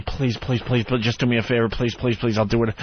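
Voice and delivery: quick run of mock pleading; retold begging. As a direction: rattle off pleas, imitating someone desperate. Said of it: "Tony's begging me".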